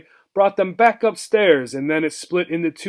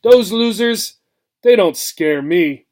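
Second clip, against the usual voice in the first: louder, scornful brush-off; scoffing; 4 semitones higher, 5 dB louder, slower than usual. Acted. Old mouse scoffing at Obie's fear of the pets. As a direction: wave the danger away with contempt. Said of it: "The old mouse scoffed".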